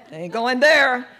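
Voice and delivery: loud, high, firm no; refusing a sponsor like her mother, loud; emphatic refusal. Retold or imitated. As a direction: shut it down loudly.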